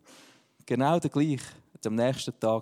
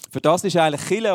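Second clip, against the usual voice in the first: laughing; 4 semitones higher, 7 dB louder, faster than usual. Real, not acted. Joking remark with laugh.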